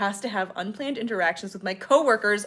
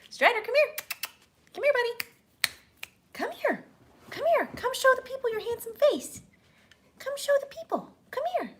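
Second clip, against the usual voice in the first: much higher sing-song calling a pet; high dog-calling voice. Real, not acted. Calling her dog over.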